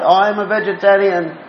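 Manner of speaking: mildly mock a self-satisfied boast; proud. Speaker mimicking people proud of their vegetarian diet, mock proud. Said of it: "are very proud".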